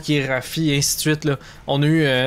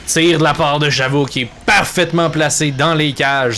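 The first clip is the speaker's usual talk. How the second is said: excited sports commentary. Real, not acted. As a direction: call the shot with a burst of energy. Goal scored in play-by-play.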